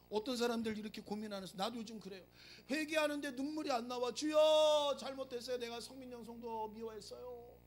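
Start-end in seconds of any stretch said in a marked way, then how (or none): 4.1-7.6 loud drawn-out cry to the Lord; hammed-up loud cry of Lord; mock prayer cry.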